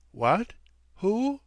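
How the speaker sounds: sudden high startled questions. A narrator's reading. Guest startled out of thought, jumping up high. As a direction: jolt out of a daydream.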